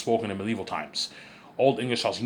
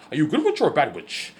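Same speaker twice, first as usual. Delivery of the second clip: high, louder imitation of her film line; V J's accent impression; 6 semitones higher, 4 dB louder than usual. Quoting her accent reel to the viewers, high-pitched mimicry. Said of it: "a pretty good accent".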